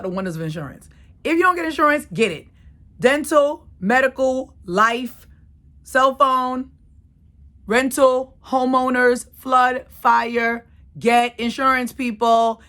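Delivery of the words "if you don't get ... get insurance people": punchy, raised list like a preachy advert; emphatic pitch. Pretend. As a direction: hammer each item for the audience. Mock sales pitch urging insurance.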